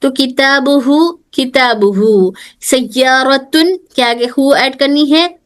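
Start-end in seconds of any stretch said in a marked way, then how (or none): 1.3-3.8 slow model word. Shown as a demonstration. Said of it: "एक example दे रहे हैं".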